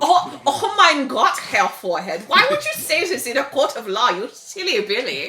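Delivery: very bad, fake, put-on German accent. Quoting a man the speaker hates, very bad German accent. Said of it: "always do a very bad accent".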